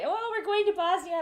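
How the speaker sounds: high, loud mock tourist; really loud. Pretend American heading to Bosnia, really loud. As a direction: announce it with hammed-up excitement. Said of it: "So let's talk really loud".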